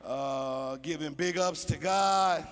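slow, swaggering hip hop greeting; hip hop church greeting. Retold or imitated. Comic visitor greeting church in hip hop slang. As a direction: drag it out like a rapper at the pulpit. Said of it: "talking about".

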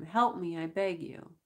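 a light pleading cry; plaintive begging. Acted. Prisoner begging the crew to help him, plaintive. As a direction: ask for help, mildly plaintive. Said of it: "I began plaintively".

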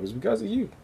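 put-on Baltimore accent. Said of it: "I sounded like I was from Baltimore".

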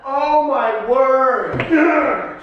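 high, drawn-out gasps of shock. Real, not acted. Shocked reaction to coffee opinion.

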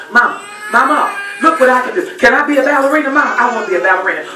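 a hint of a small girl showing off her dance; little girl pleading. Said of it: "Every day for years".

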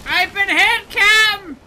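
loud hammed-up pirate cry. Player yelling to his captain in mock pirate voice. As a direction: call out to the captain like a wounded buccaneer. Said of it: "talking like that".

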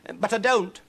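high, loud protest; crying out. Acted. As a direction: cry out in frustration. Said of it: "cried Huddle".

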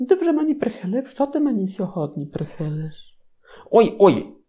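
mock Rachel. Rachel answering God.

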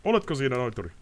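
high, uncertain call into the dark; nervous call. Acted. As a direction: call out to check he's there. Ostrid checking.

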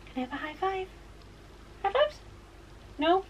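very high, soft squeaky coax. Real, not acted. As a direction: coax the dog playfully up high. Asking dog for high five.

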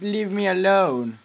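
reading the note. Retold or imitated. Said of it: "the note you said".

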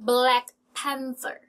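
Black Panther, word by word, TH with tongue out; English TH in Panther. Shown as a demonstration. Teacher demonstrates after explaining TH, slow and careful. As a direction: say "Black Panther" slowly, friction on the TH. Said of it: "ทีเอช ออกไง แลบลิ้นออกมา".

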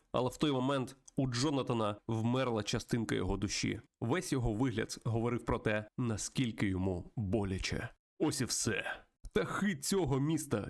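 lightly dramatized game story read-aloud; story narration. Acted. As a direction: narrate the tale with a touch of drama. (виразне читання історії)

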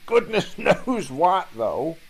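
high, spluttering driver voice; coughing driver. Acted. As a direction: splutter through the steam. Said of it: "the driver coughed through the billowing steam".

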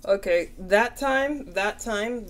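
words stretched by a yawn. Real, not acted. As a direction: talk through a yawn. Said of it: "I, I yawned".

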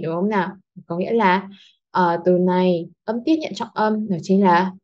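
ordinary talk, nothing marked

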